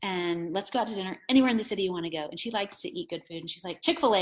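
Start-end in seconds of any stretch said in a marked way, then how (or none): 3.8-4.2 high, loud blurted request; imitated eager daughter. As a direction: blurt it like an insistent child.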